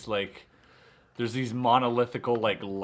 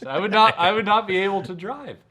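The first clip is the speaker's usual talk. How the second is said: emphatic; 8 semitones higher, 6 dB louder than usual. Retold or imitated. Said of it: "I'm like".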